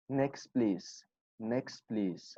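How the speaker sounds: next please flowing together, t silent; no break between next and please; linked, no stop. Shown as a demonstration. Teacher modelling the smooth fluent version. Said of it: "You just say".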